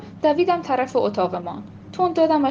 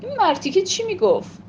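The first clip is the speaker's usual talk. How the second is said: a higher-pitched grumble; grumbling; 8 semitones higher than usual. Acted. Mother grumbling at her daughter about the dealer, higher-pitched. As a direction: complain under her breath about the man. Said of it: "غرغر ننه".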